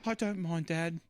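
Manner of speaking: put-on light British kid accent. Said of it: "why are you talking in a British accent".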